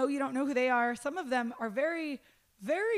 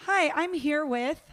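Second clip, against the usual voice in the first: mock host intro; 2 semitones higher, 5 dB louder, slower than usual. Shown as a demonstration. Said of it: "if you ever see this".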